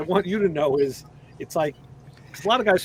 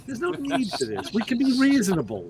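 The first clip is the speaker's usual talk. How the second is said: Jewish mobster; 3 semitones higher than usual. Retold or imitated. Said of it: "now you sound like a Jewish mobster".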